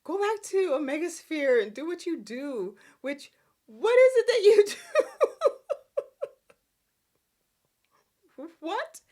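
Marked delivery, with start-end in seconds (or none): 3.0-9.0 words breaking into laughter; laughing. Real, not acted. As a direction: laugh through the question. Laughs while mocking Daniel's job.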